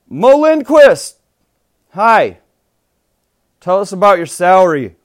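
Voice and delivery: loud, high eager interviewer; reporter voice. Acted. Mock press conference interviewer.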